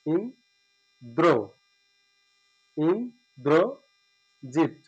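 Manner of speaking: ইন্দ্রজিৎ very slowly as "in-dro-jit"; syllable break. Shown as a demonstration. Teacher shows where to stop in the word, slow. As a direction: pause after ইন, then stretch ইন্দ্রজিৎ. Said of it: "এখানে থেমে গেলাম".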